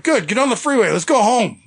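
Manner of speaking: imitating an eager escape; urgent retold order.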